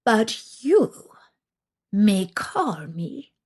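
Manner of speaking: put-on a sly witch toying with a girl; old witch. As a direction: witch introducing herself to Vasilisa, sly. Witch voice held.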